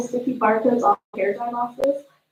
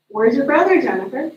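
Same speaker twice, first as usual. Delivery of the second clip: sharper, louder mom demanding an answer; a mom pressing her daughter, a bit louder; impatient mom; 2 semitones higher, 6 dB louder than usual. Retold or imitated.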